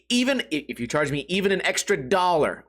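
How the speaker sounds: ordinary talk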